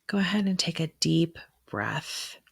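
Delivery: measured meditation voice with long pauses; guided meditation. Acted. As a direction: ease the listener into breathing, unhurried. Guides breathing in a ritual.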